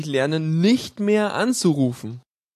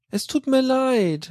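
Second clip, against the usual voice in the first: higher, slow, sugary-sorry soap mother; Mutter Beimer; 9 semitones higher, slower than usual. Acted. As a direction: apologize like a syrupy TV mum. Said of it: "wie Mutter Beimer in der Lindenstraße".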